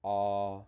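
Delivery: loud open "Ah", mouth wide; "Ah" with tongue down and flat; saying ahh. Shown as a demonstration. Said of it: "your mouth opens up".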